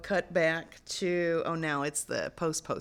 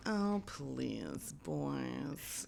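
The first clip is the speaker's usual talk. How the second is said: soft, drawn-out mock exasperation; weary dismissal; 6 dB quieter, much slower than usual. Charles to two men squaring up, wearily dismissive. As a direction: sigh it at squabbling men.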